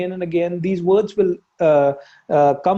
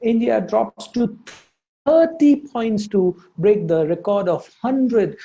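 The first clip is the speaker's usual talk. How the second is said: slow news read, weight on "thirty points"; stress on thirty points; 3 semitones higher, slower than usual. Shown as a demonstration. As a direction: lean on "thirty points" slowly like the anchor. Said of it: "इसने thirty points पे बहुत जोर दिया".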